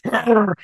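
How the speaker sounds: mock groan of agitation; agitated growl. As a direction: growl with impatience. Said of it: "a little bit agitated".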